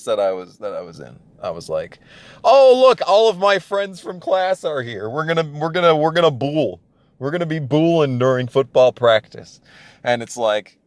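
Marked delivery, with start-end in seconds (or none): 2.4-9.6 put-on high, eager kid voice, much louder at the start; chirpy naive hype about bowling; young self, bright and eager, mocked; mock excited. Imitates his naive younger self.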